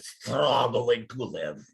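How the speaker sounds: slow, drawn-out weary lament; Alex's voice. Retold or imitated. Remembering Alex's voice at the college, slow and weary. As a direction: stretch it out like a tired old immigrant. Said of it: "that voice I hear in the back of my head".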